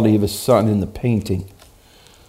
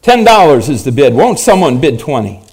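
auctioneer calling bids; 4 semitones higher, 5 dB louder than usual. Acted.

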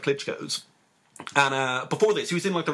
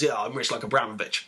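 boxer's boast; 4 semitones lower than usual. Retold or imitated. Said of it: "He starts laughing".

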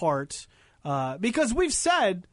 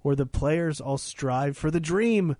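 poem reading; slower than usual. Acted. Reads AI limerick aloud.

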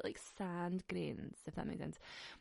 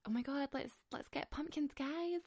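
climbing higher, gushing to friends; excited; 7 semitones higher than usual. Retold or imitated. Calling friends to go pumpkin shopping, rising excitement. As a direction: squeal it like a giddy kid. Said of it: "I actually am just like".

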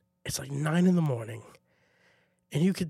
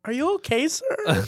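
higher, lightly voiced concerned students; polite kids; 9 semitones higher than usual. Students in line checking on the tired assistant, higher. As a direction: ask sweetly and timidly.

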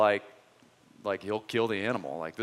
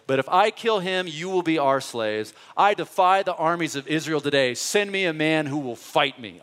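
loud, raised giant's taunt; 4 semitones higher, 6 dB louder than usual. Acted. Preacher voicing Goliath taunting the armies. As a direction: throw down the challenge. Goliath's challenge read dramatically.

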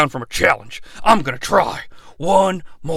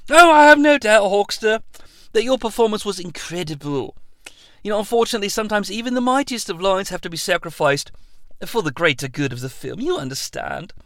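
much softer, quick soothing explanation; Christopher Nolan; 2 semitones higher, 5 dB quieter, faster than usual. Acted. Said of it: "Christopher Nolan".

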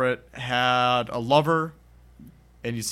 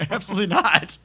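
mock flat refusal; 8 semitones higher, 5 dB louder than usual. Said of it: "he's like".

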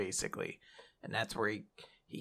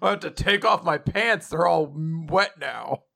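mock dub villain; 3 semitones higher than usual.

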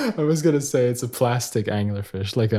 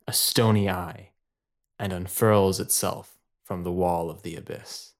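story narration. Acted. Game master describing the descent into darkness, suspenseful story narration.

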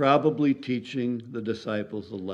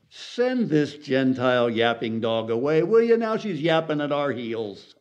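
annoyed complaint. Acted. Acted disciples' annoyed complaint.

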